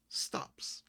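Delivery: soft, whispered narration; hushed dramatic beat; hushed suspense. A narrator's reading. Game master ends whirlpool description suspensefully.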